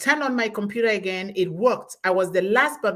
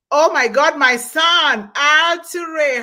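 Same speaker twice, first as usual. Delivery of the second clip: excited surprise; 5 semitones higher, 8 dB louder, slower than usual. Real, not acted. Host sees her son in chat.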